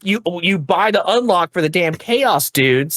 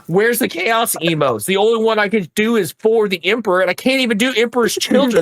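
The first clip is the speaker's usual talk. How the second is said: higher and fast, venting half-jokingly; mad rant; 6 semitones higher, faster than usual. Real, not acted. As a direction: rattle off the complaints, worked up. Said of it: "I'm so mad right I'm".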